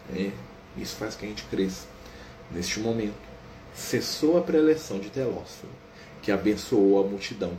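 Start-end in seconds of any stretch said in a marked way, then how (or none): 2.5-7.5 slow, calm book narration; story narration. A narrator's reading. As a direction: narrate the scene gently and evenly.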